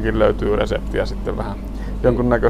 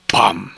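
crash sound; 3 semitones lower than usual. A narrator's reading. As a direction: punch out a storybook crash. Crash in the story. (kova pamahdus)

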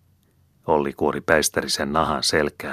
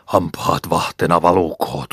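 snapping charm; 2 semitones higher, 5 dB louder than usual. Acted. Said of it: "äyski".

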